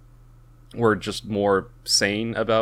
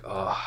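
a soft, weary groan of frustration; frustrated groan; 7 dB quieter than usual. Retold or imitated. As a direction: groan quietly, fed up and rubbing his head. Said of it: "he's getting frustrated".

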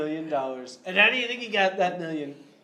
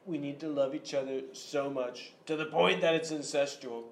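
Trump impression; 2 semitones lower, 3 dB quieter than usual. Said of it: "President Trump here".

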